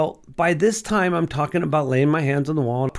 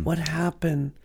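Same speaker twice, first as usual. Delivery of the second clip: much softer, awed question to God; hushed prayer; 6 dB quieter than usual. Retold or imitated. Man asking the Lord in wonder, hushed and awed. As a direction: ask it in quiet awe.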